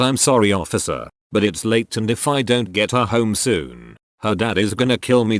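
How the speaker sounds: a hint of a Texas accent. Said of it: "in my best Texas accent".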